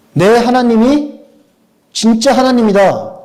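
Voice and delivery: 높고 크게, 천천히 외치는 믿음의 고백; 온 힘으로 선언하듯. Acted. 엘리야의 믿음을 외침. (확신에 차 높게 외치는 선포)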